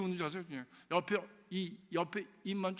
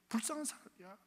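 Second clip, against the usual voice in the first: usual speaking voice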